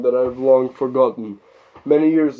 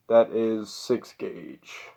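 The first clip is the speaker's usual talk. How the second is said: quiet slow aside; 2 semitones lower, 5 dB quieter, much slower than usual. Real, not acted.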